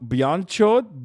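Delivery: "Bian Chot" with a glided ya sound in Bian; trying out pronunciation. Shown as a demonstration. Streamer practicing a Hindi word, "Bian Chot" as another attempt. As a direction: sound out "Bian Chot", stretching the first vowel into ya. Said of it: "trying to say words correctly".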